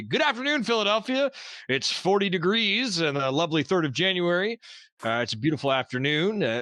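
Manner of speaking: upbeat morning-radio host read; lightly voiced radio host. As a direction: greet the city like a DJ on air. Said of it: "That was a great radio voice".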